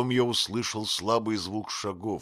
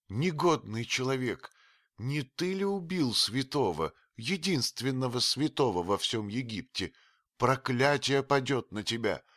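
cursing; 6 semitones higher than usual. A narrator's reading. Old nurse cursing the supposed killer, angry and high. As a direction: spit out the curse on the intruder. Atua curses the stranger.

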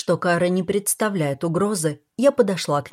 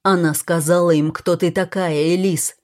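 shouting; 4 dB louder than usual. Acted. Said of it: "крикнул Уильям".

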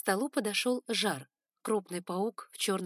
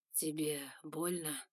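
slow and softer, gentle; 2 semitones lower, 5 dB quieter, slower than usual. A narrator's reading. The usually stern lord asking the hurt girl, softly. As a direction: ask gently for once. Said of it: "казался мягким, с какой-то хрипотцой".

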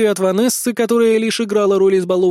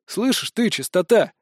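calm. Acted. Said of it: "спокойно ответил я".

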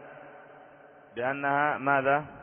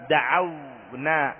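drawn-out example word; much slower than usual. Shown as a demonstration. Teacher reading an example verb to students, very slowly drawn out. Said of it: "teacher reads example verb".

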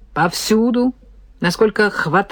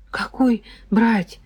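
confused mutter; 4 semitones higher, slower than usual. Acted. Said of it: "растерянно пробормотал Серёжка".

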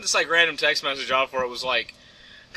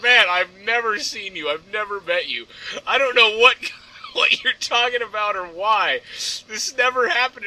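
mildly dramatic denial; 5 semitones higher, 3 dB louder than usual. Retold or imitated. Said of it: "he just went on this big dramatic thing".

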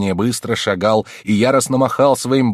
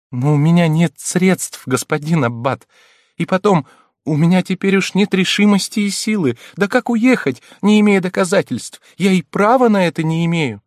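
helpless plea; 10 semitones higher, 6 dB louder than usual. A narrator's reading. Countess pleading helplessly to abbé.

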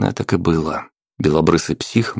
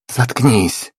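sharp angry hiss, higher; hissed shut up; 6 semitones higher than usual. A narrator's reading. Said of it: "прошипела Мора". (злобное шипение наёмницы)

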